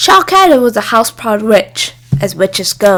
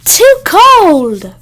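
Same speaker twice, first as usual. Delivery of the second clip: firm; 9 semitones higher, 7 dB louder than usual. A narrator's reading. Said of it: "said firmly".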